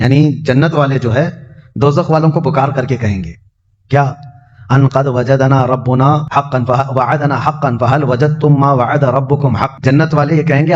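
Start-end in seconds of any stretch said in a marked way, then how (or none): 4.7-9.8 Quranic recitation. Acted. Recites Quranic verse in sermon.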